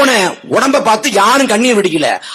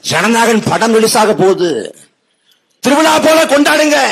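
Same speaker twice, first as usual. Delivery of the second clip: mock announcement, pitch climbing at the end; mock proclamation. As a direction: imitate a minister announcing a festive occasion. Mimics minister announcing film release.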